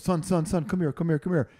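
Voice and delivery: a hint of an eager preacher; calling out. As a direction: wave the kid over. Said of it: "this guy in the back goes".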